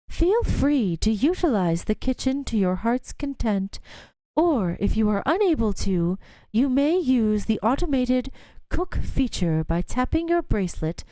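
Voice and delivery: smooth, polished PA announcement; announcer voice. Acted. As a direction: speak like a polite building announcer. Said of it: "the voice silvery and modulated".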